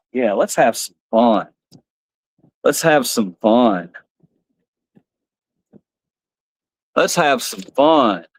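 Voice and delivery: low, slow puppet menace; lightly voiced mischievous puppet. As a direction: drag it out like a sneaky puppet.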